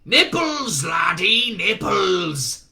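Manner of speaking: put-on loud, high testy shout in a regional accent. Shadwell losing patience with Newton, shouting testily. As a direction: snap it impatiently. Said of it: "said the voice testily".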